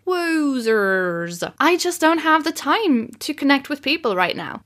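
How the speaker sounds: a light, jokey put-on Russian accent; Russian accent attempt. Host mocking their own lockdown excuses, light Russian accent. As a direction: play at a Russian accent, half in fun. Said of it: "This is my attempt at a Russian accent".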